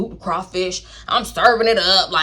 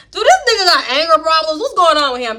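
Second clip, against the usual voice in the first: incredulous aside; 7 semitones higher, 5 dB louder than usual. Retold or imitated. Thinking about his anger.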